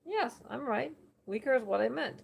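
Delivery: a hint of a smug New York oracle; bad New Yorker accent. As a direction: settle it like a cocky New Yorker. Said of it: "New Yorker accent".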